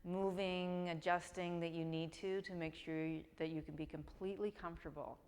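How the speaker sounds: calm, unhurried meditation guidance with long pauses; guided meditation. Real, not acted. Yoga teacher settling students on the mat, calm guided meditation. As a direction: ease them into rest, leaving room to breathe.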